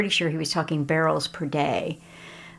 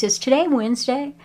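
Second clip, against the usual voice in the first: much higher and louder sudden question; surprised; 9 semitones higher, 5 dB louder than usual. Retold or imitated. Local man to a visitor, realising what day it is, surprised. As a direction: snap to it as if an idea just struck.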